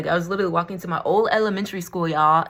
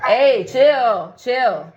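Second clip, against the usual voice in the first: louder, higher call to a dog; calling out a command; 5 semitones higher, 7 dB louder, much slower than usual. Real, not acted. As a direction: sharply tell the dog to settle.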